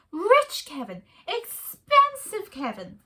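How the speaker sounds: high, loud squeaky meerkat; a chirpy little meerkat answering his love. A narrator's reading. Meerkat Kevin to his wife, high and eager.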